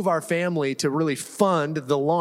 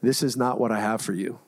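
a lightly voiced Lord, lower and calm; 6 semitones lower than usual. Pastor hears the Lord during the house walkthrough, low calm voice. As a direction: let God speak low and unhurried. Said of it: "I feel like the Lord said".

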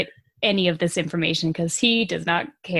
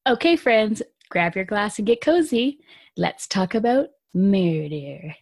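podcast intro; slower than usual. Acted. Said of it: "I wanna do the thing".

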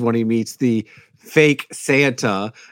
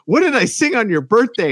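quizzing Santa; 12 semitones higher than usual. Retold or imitated. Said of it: "then he's asking him".

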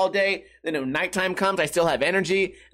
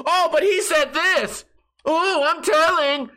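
much higher, louder, slow taunting tattletale; mocking tattletale; 12 semitones higher, 4 dB louder, slower than usual. Mocking the friends who snitched on him, high sing-song taunt. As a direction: mimic a snitching kid, drawn out. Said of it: "without somebody going".

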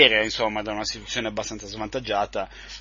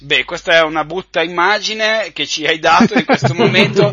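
laughing loudly while talking; words through a big laugh; 7 semitones higher, 9 dB louder than usual. Real, not acted. Laughs at a crude image.

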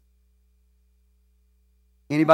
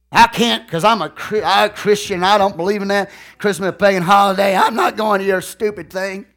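self-righteous refusal; 3 semitones higher, 4 dB louder than usual. Pretend. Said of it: "You act like an idiot".

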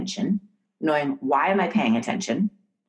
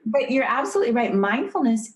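laughing; 6 semitones higher than usual. Real, not acted. Guest laughs along.

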